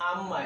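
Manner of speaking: "আম্মা" joined, with a double m; joined doubled mim. Shown as a demonstration. Teacher joining spelled letters for learners, joined doubled mim. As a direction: link am and ma as "আম্মা", leaning on the m. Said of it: "এর উচ্চারণটা হবে".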